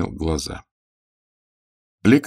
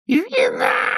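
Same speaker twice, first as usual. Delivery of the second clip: hoarse wheeze. A narrator's reading. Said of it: "просипел он".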